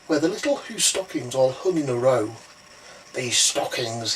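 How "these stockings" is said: low, slow, gloating villain voice; grinning Grinch. Acted. Grinch eyeing the Who stockings, low gloat. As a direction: savour the words like a cartoon villain. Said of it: "he grinned".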